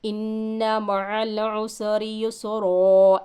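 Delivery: युसरा ending on a long आ, not युसरन; stop with alif. Shown as a demonstration. Teacher shows how to stop on युसरा with a long आ. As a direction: stretch the final आ of युसरा. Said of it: "किस तरीक़े से वक़्फ़ करेंगे".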